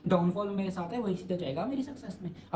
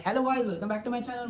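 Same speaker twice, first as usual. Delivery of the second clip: higher, slow put-on bright greeting; cheery vlogger intro; 5 semitones higher, much slower than usual. Forcing a cheery greeting to viewers despite his mood, slow and higher. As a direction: fake a cheerful hello over a bad mood. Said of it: "लेकिन still I go for".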